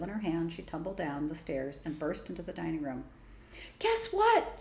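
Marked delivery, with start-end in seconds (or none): 3.8-4.6 high, loud excited call; excited shout. A narrator's reading. Girl bursting into dining room shouts excited news. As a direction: bursts in with big news, voice leaping up. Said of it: "she shouted".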